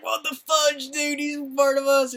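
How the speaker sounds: high, loud mock disbelief; shocked outrage. Soldiers realizing Captain America fooled them, high shocked yell. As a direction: squawk it as the betrayed soldiers. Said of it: "they were like".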